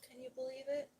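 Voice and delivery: put-on lively storybook recap, each line told to a small child; reading to children. Streamer recapping The Secret Garden to her viewers, storybook voice. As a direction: tell it like a bedtime story to a little one.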